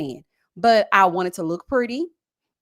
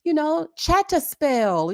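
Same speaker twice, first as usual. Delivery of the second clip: mock British accent; 6 semitones higher than usual. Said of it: "I ain't got the accent".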